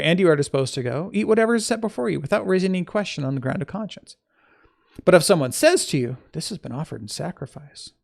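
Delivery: emphatic reading of an epistle; scripture reading. Acted. Teacher reading Paul's letter to listeners, emphatic scripture reading. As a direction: read it out clearly, lifting key phrases.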